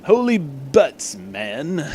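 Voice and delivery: slow, drawn-out pompous exclamation; lightly hammed blowhard hero; Zap Brannigan voice. Arthur exclaiming at the doc, mild Zap Brannigan voice. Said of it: "kinda be like Zap Brannigan".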